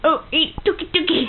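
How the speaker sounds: toucan noise. Pretend. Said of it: "The toucan".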